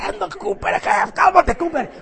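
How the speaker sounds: high-pitched pleading with the dog to calm down; high coaxing call to dog. Retold or imitated. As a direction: soothe the little dog in a high voice. Calming his dog near another.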